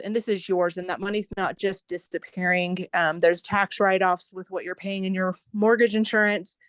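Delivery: winded, short of breath while talking. Real, not acted. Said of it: "I'm a little bit out of breath".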